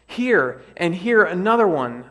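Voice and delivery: loud, high wail. Acted. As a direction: wail in disgust at the bugs. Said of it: "I wailed".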